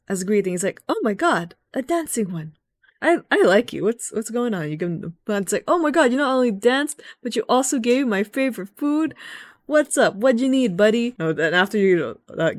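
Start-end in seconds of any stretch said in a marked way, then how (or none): 0.9-4.7 high, gushing little fairy voice; pitched-up mock fairy thrilled to meet you; excited sylph. Retold sylph greeting the dancer. 5.7-11.1 high, fast, gushing fairy voice; squeaky fairy babbling happily to a new friend; overjoyed sylph. Retold or imitated. Retold sylph delighted by gift.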